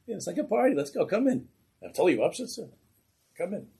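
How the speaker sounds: high, loud laughing party voice; mocking high cheer, loud; laughing mock welcome. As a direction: jeer them in like a joke. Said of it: "They all start to laugh".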